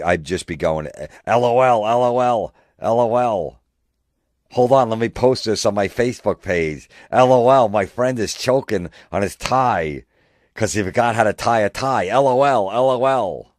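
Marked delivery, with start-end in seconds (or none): 1.3-3.6 high, loud mocking chant; gloating taunt. Taunting choking friend. 4.5-13.5 high, loud jeering voice; gloating poster. Retold or imitated. Posting about choking friend.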